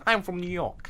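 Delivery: put-on New Yorker voice; Brooklyn gangster accent. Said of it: "the gangster kind of, like, Brooklyn".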